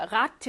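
가트 stressed as the end of 아파가트; stress on final syllable. Shown as a demonstration. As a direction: lean on 가트, the late stressed syllable. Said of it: "얘는 많이 끌어내려". ('가트'에 강세를 실어서)

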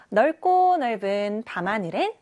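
넓고 넓은 밤하늘엔 ending on a rise; uptalk. Shown as a demonstration. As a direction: let 밤하늘엔 lift like a question. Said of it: "말끝을 올려서 질문하듯이".

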